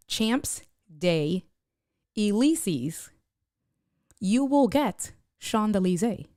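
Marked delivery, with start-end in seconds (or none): 0.1-3.1 "Champ Vet Day Elysees" slowly, like English words; anglicized reading. Shown as a demonstration. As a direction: sound it out as written. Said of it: "type in a Google search".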